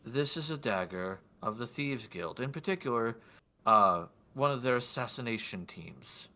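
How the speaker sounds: lightly voiced, deliberate noble; a hint of a lord explaining, with pauses; lordly man in white. Lord identifying the dagger, lightly acted measured voice. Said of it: "do my best for his voice".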